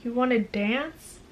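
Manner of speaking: soft question rising on wanna. A narrator's reading. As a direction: ask it gently, lifting at the end. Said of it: "He says it as a question".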